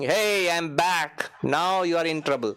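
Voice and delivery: lightly voiced taunt with drawn-out words; playful imitation of a gloating intruder; depression personified, taunting. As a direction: announce a mock-menacing return, stretching it out. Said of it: "Is it saying".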